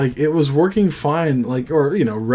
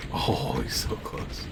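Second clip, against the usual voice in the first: whispering; 11 semitones lower, 12 dB quieter, slower than usual. Real, not acted. Tense boss fight, nearly won.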